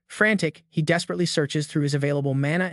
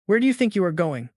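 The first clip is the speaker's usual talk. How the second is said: lightly voiced menacing sneer; Organ's sneer; 3 semitones higher than usual. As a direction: taunt her like a cruel villain. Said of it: "Organ sneers".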